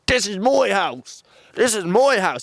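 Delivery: put-on high, stretched broad Dublin accent. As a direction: holler it in thick, high-pitched Dublin. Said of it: "the whole time he's like".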